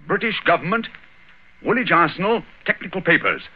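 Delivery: high-pitched, keyed-up listing; mounting theatrical discovery; triumphant deduction. Acted. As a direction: ring out each clue separately, pitch held high. Holmes triumphantly piles up clues.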